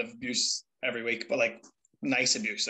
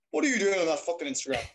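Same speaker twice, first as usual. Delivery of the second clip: quick, higher-pitched mock telling-off; scolding dad; 4 semitones higher, faster than usual. Son imitating his dad ringing about Instagram, exasperated. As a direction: imitate an exasperated father on the phone.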